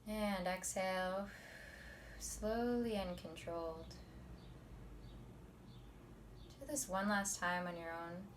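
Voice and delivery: soft, measured meditation teacher voice; quiet, unhurried guidance; guided meditation. Acted. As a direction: ease them into calm, leaving long pauses. Leads the meditation.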